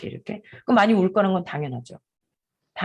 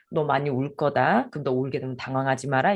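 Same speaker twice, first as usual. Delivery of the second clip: slow, gentle; 4 semitones lower than usual. Shown as a demonstration. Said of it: "이거예요".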